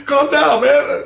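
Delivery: loud, high calm down; calming shout. Retold or imitated. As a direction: call out to settle him. Calming a sobbing father.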